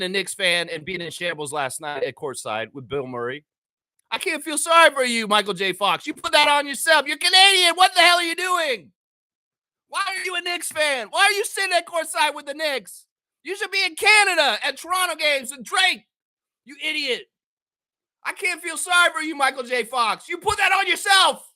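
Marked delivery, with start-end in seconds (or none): 4.1-6.1 heated rant. Real, not acted. Ranting at Michael J. Fox. 6.1-17.3 high scolding rant. Real, not acted. Scolding Michael J. Fox, rising. 18.3-21.5 high shout. Real, not acted. Shouting at Michael J. Fox.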